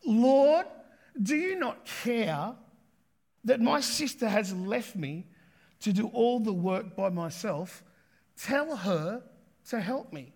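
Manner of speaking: a hint of an exasperated sister complaining; frustrated Martha. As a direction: Martha pleading with Jesus, mildly exasperated. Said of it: "Can you hear it when she says".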